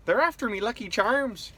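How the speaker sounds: put-on Irish accent with nervous laughter. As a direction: push through a shaky leprechaun voice. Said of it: "You sound so nervous".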